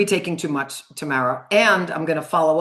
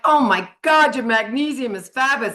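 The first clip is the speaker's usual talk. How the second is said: louder and higher, hammed-up surprise; mock amazement; 5 semitones higher, 4 dB louder than usual. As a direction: fake a thrilled lab result. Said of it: "No one's like".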